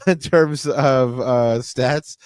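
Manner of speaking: slow restart after a chuckle; real laughing. Real, not acted. Host laughing about Raji while asking for stats, amused. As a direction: get back on topic through a laugh. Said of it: "Sorry, I'm just laughing".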